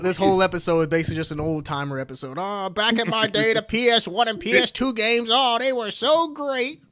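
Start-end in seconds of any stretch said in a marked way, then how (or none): 2.4-6.8 reminiscing grandpa, dragging the end; old man voice. Pretend. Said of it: "You got such a good old man voice".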